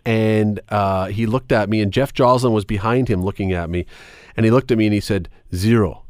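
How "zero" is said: imitating a Portuguese-accented fighter; a hint of a Portuguese accent on a curt answer; lightly mimicked Portuguese accent. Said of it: "with this Portuguese accent".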